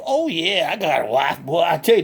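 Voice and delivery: lightly voiced country hick, cheerful and boastful; redneck Bubba. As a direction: play a proud backwoods redneck bragging. Bubba answers host.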